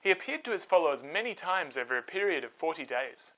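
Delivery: put-on calm storyteller reading to kids; story narration. A narrator's reading. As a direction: tell it gently, like a bedtime Bible story. Reads Bible story to children.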